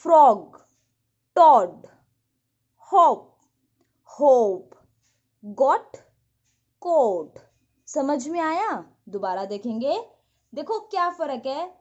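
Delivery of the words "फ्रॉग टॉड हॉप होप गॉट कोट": loud, isolated words; loud word-by-word pronunciation drill; read aloud loudly. Shown as a demonstration. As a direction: say each word out loud for the class to follow. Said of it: "तेज से बोलना है, अलाउड".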